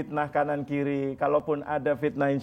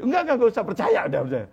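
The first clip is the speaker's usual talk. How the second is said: scared refusal; 5 semitones higher, 4 dB louder, much faster than usual. Retold or imitated. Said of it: "Ketakutan dia, takut".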